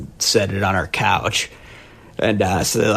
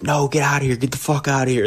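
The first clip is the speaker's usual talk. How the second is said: mock yell; 5 semitones higher, faster than usual. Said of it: "his energy invigorated me".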